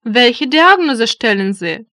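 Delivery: ordinary delivery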